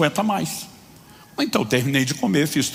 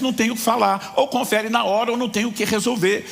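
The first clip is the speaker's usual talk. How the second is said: cashier refusing; 8 semitones higher than usual. Retold or imitated. Cashier to customer, mock angry refusal. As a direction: shut the customer down. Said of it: "ela não me deixava".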